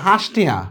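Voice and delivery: "হাঁস টিয়া" as dialect for five taka; dialect pronunciation. Shown as a demonstration. Teacher showing how dialect says five, dialect pronunciation of "হাঁস টিয়া". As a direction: say "হাঁস" for পাঁচ, dialect style. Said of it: "পাঁচ রে বলে".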